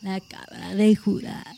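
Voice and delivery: slow, dramatic title drop; movie trailer voice. Acted. Echoing the film title.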